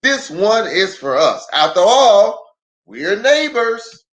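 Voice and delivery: put-on neighborly country boy declines pay; Lem's kindness. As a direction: Lem waving off payment. Lem refuses payment.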